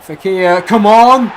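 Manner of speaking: very loud, high yell at the player; desperate shout of urging. Real, not acted. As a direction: scream at him to finish. Yelling at a player.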